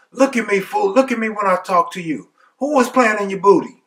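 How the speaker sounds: high-pitched mock confrontation; taunting demand. Cellmate orders Lyle to look, taunting demand.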